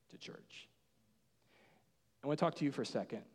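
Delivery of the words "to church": breathy whispered aside, much softer. Acted. Preacher whispering to the congregation, hushed. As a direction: drop to a hush for the reveal.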